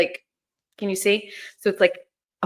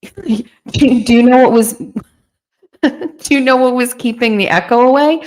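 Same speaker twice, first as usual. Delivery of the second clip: giggling question, higher and louder; laughing; 4 semitones higher, 4 dB louder than usual. Real, not acted. Asking viewers about the echo while laughing. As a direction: laugh through the whole question.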